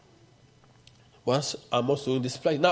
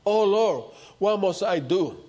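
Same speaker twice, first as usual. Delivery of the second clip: raised, higher cry to God; calling out; 3 semitones higher than usual. Retold or imitated. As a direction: call out to the Lord in appeal. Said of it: "Moses call out".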